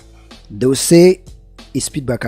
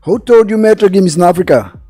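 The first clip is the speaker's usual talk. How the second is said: higher, louder incredulous retort; raised-voice objection; indignant challenge; 7 semitones higher, 8 dB louder than usual. Real, not acted. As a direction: challenge them loudly, in real disbelief. Challenges the other's claim in debate.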